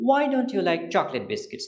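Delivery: slow classroom demo; slow model question. Shown as a demonstration. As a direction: question spoken slowly, word by word. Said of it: "এখন আপনাকে যদি প্রশ্ন করা হয়".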